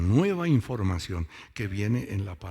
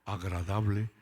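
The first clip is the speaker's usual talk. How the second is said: preacher reading scripture slowly; emphatic Bible reading. Real, not acted. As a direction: read the verse out slowly and firmly. Reading Bible version aloud.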